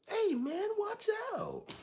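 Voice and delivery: squeaky high mocking voice, loud; mock high whiny dude. Mocking the other driver scolding him, in a squeaky high voice. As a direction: imitate the driver as a shrill whiny complainer. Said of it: "dude was like".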